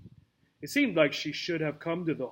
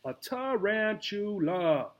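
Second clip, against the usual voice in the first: indignant tarantula; 5 semitones higher than usual. Acted. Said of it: "roared Jose indignantly".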